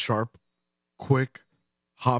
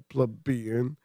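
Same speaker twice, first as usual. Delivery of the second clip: "plebeian" said slow and smug, rising at the end; 4 dB quieter than usual. Shown as a demonstration. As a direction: drawl "plebeian" smugly with a lift. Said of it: "I say it all smug".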